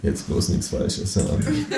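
slow unvoiced whisper to himself; hushed thought. Nervous guy whispering to himself in front of thug. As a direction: whisper it, careful not to slip.

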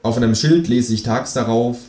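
measured comic verse recital; declaiming a poem. A narrator's reading. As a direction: recite the doggerel deliberately, line by line. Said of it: "Ich deklamiere".

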